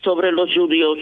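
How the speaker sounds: reading a folk tale aloud, lightly acted; story narration. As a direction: tell the old family story to listeners. Reads a Haketia story aloud.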